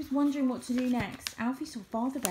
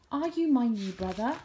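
hopeful call across the lake; 3 semitones higher, 4 dB louder than usual. A narrator's reading. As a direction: call out to a baby bear. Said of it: "he called out".

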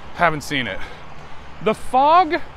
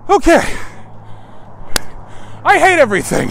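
mock frustrated; 10 semitones higher, 4 dB louder, faster than usual. Sudden frustrated outburst.

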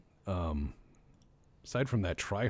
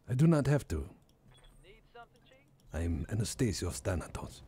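lightly voiced Greek supervillain; proud villain brushing off criticism, lightly acted. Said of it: "he's like a Greek supervillain".

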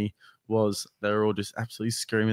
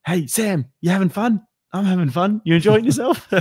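high, loud teasing call to a fighter; imitating a yell; 9 semitones higher, 7 dB louder than usual. Co-host imitating the commentator yelling at Sam, loud and teasing. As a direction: shout it cheerily across the ring. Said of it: "I could hear you at one point yelling out".

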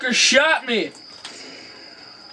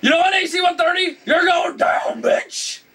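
raging gamer; 6 semitones higher than usual. Real, not acted. Yelling at enemy plane.

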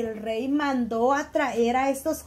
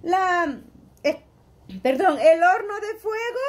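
mildly raised, hurried angry order; angry king; 4 semitones higher than usual. Acted. King hurrying servants about the furnace, mildly angry. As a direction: push the order out fast, then stumble. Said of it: "se enojó y dijo".

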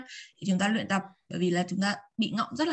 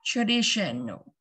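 slow model reading; much slower than usual. Shown as a demonstration. Teacher to pupils, slowly modelling the word. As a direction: say "Traditional" slowly, syllable by syllable. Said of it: "slow model of new word".

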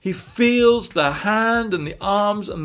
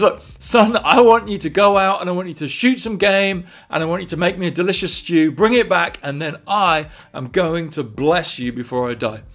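Southern American dad, starting louder, easing off; Southern American accent; 4 dB louder than usual. Acted. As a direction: give the father a put-on Southern American accent. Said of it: "suddenly gone Southern American".

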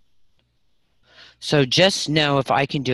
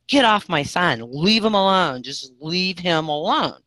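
retold command; 4 semitones higher than usual. Commanding the demon in retold story.

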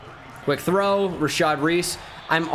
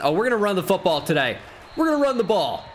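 excited; 5 semitones higher, faster than usual. Real, not acted. Hyped about running the ball.

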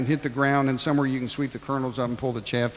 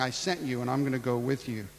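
softer, gentle promise; reassuring; 6 dB quieter than usual. Acted. God reassuring Gideon, soft and gentle. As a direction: speak it as a quiet promise.

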